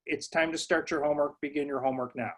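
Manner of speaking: calm, matter-of-fact statement, no question; just tell them what to do; direct command. Shown as a demonstration. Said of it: "they should say".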